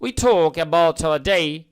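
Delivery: slow British-style read of talk; British English, slowly dictated; British accent. Shown as a demonstration. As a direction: talk said the British way, rounded vowel. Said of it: "ব্রিটিশরা বলে talk".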